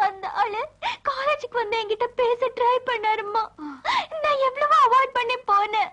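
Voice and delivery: high, sobbing complaint to mother; tearful, high-pitched wailing account; crying. Acted. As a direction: sob it out between gasps. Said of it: "சரி, சரி, அழாத".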